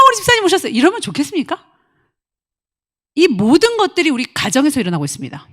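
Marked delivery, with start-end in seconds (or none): 0.1-0.7 high, bright welcoming greeting; mock sugary welcome; cheery greeting. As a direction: fawn over the elder. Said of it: "그 사람 뚝 싹 지나가면".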